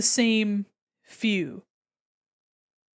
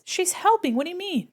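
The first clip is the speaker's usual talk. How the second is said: cutesy voice; 9 semitones higher than usual. Acted. Cute voice about cat.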